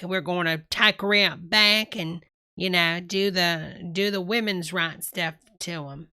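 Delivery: lightly exaggerated Southern accent; mock Southern accent. Streamer mimicking the video host's shifting accent, mock Southern. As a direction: imitate a real Southern talker. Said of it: "he talks real Southern".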